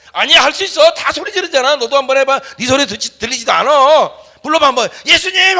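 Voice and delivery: high, loud coaxing, building to a shouted 예수님; urgent encouragement. Retold or imitated. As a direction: push the shy boy on with rising urgency. Pastor urging boy to shout.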